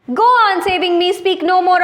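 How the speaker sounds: a firm, mild command to stop talking; stern order. Acted. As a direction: cut him off like an impatient sultan. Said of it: "ordered the sultan".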